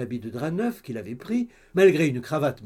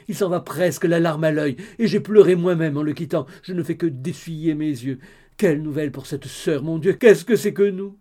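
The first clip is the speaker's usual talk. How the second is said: the gossip mother, louder and excited; 6 dB louder than usual. Acted. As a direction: blurt it all out like a chattering busybody. Madame d'Alin's loud chatter. (la mère bavarde, plus fort et excitée)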